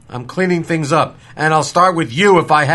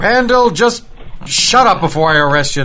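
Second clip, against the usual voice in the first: stern; 3 semitones higher, 3 dB louder than usual. Acted. Sheriff silencing Randall.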